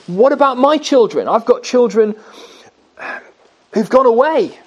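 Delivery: lightly voiced anxious parent; understated grief over children who've gone away; mild lament. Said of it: "you may be lamenting this morning".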